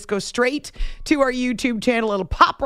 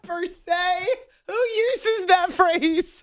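laughing mock disbelief; 7 semitones higher, much slower than usual. Real, not acted. Mocking the co-host's fancy word.

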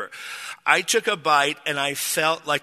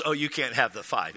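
lower, lightly imitated Thai accent; low-pitched mock Thai-accented refusal; 4 semitones lower, 5 dB quieter than usual. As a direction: quote the waitress with a hint of Thai accent. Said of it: "in her Thai accent".

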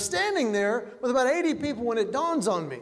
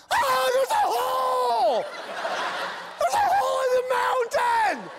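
high shouted panic, slowed and laughing; panicked driver; 13 semitones higher, slower than usual. Acted. Clueless driver seeing the tunnel, panicked high shout. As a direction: yell it like a confused tourist at the wheel. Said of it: "Who is driving going".

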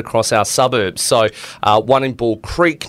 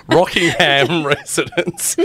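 put-on British accent; 6 semitones higher, slower than usual. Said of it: "I'm putting on, like, a British accent".

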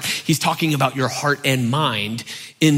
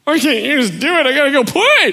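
put-on high, exasperated childish protest; whiny kid; 11 semitones higher than usual. Kid complaining to parents about the door, whiny. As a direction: whine like a put-upon child. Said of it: "I used to be like".

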